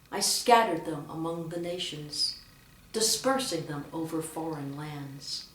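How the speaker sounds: "scattered" and "dispersing" given weight; proclaimed line, emphasis on "scattered" and "dispersing"; stress on verbs. Shown as a demonstration. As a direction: lean on "scattered", then on "dispersing". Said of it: "with emphasis on the verb".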